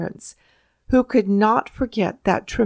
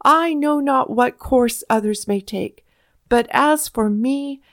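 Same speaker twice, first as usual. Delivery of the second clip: climactic oration, higher, with rising passion; burst of eloquence; 3 semitones higher than usual. A narrator's reading. Patrick Henry ending his speech, climactic fervent oratory. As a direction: drive the speech to its peak. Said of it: "immortal bursts of eloquence".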